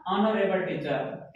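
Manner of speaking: ऑनरेबल teacher said very slowly, starting on the vowel ऑ with no h; teacher modelling ऑनरेबल teacher slowly for students; pronunciation demo. Shown as a demonstration. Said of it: "उच्चारण क्या होगा इसका".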